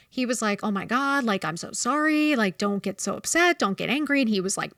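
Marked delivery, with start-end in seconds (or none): 0.6-4.2 imitated panic. Imitating the principal apologizing on the phone, panicked. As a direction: imitate someone anxiously placating an angry person.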